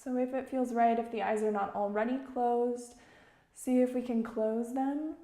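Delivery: calm, measured meditation guide; unhurried instruction, phrase by phrase; guided meditation. Real, not acted. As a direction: guide listeners gently with long pauses.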